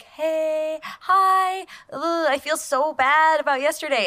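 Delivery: put-on high, sing-out greeting as to a child; delight and joy. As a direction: apologize with open, gushing delight. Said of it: "with the same delight and joy I would greet a child".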